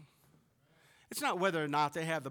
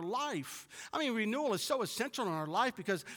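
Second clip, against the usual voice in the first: raised, emphatic preacher's delivery; louder, higher pulpit proclamation; preaching; 8 semitones higher, 5 dB louder than usual. Real, not acted. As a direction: preach it with building conviction. Preaching with force.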